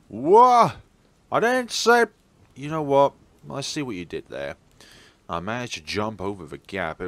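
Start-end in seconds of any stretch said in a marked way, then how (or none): 0.1-0.7 very high, loud startled cry; startled whoa. Acted. Friend jumps early during the count, a loud startled whoa. 1.3-3.1 high, loud flustered complaint; flustered protest. Acted. Friend jumped before the count, high flustered protest.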